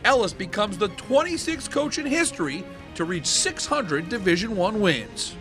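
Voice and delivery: sports retrospective voiceover with swooping pitch; announcer read. Acted. Sponsor looking back on coach's historic win, announcer read. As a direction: announce a milestone for the highlight reel.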